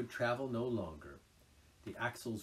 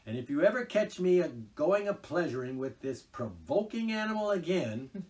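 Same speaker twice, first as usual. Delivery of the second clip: loud, fed-up complaining; exasperated Rat; 4 semitones higher, 10 dB louder than usual. A narrator's reading. Rat grumbles to Mole across Toad. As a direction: at the end of his patience.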